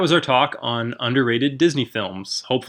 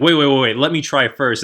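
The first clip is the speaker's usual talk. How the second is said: eager Kay; 3 semitones higher, 6 dB louder than usual. Retold or imitated. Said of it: "Kay's like".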